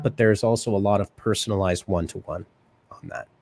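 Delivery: running out of breath; breathless, voice fading out. Real, not acted. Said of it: "I ran out of breath there".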